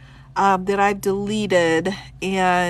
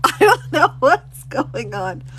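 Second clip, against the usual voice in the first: laughing; 4 dB louder than usual. Real, not acted. Laughs at the signed copy.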